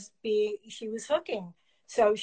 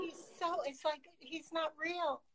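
hushed; 5 semitones higher, 10 dB quieter than usual. Real, not acted. Gushing over dog, hushed.

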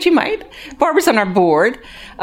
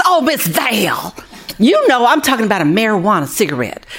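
lightly voiced resident humoring her naive counselor; mock patient resident; 3 semitones higher, 4 dB louder than usual.

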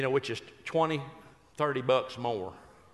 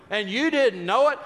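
louder, higher astonished question; surprised question; 8 semitones higher, 8 dB louder than usual. Retold or imitated. The audience voiced asking about the letter, surprised. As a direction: ask it with big astonishment. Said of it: "You go".

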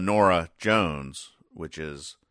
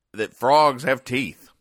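mock amazement; 7 semitones higher, 8 dB louder, slower than usual. Reading a surprising fact aloud.

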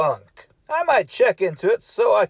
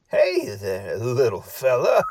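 put-on gentle baby talk; 8 semitones lower than usual. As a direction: coax him out gently. Greeting a little puppet guest.

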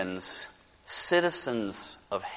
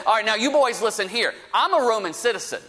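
higher-pitched, quick, assertive retort; Paul; 6 semitones higher, faster than usual. Retold or imitated. Beaten Paul pulls rank on his floggers, brisk mock warning. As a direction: retell it as a brisk, folksy warning. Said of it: "he says".

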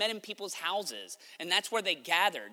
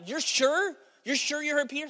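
doubtful questioning; 7 semitones higher than usual. Acted. Doubting group questions the servant.

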